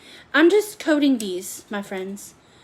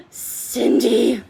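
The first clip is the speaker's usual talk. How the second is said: excited greeting; 5 dB louder than usual. Real, not acted. Greeting friend joining the stream.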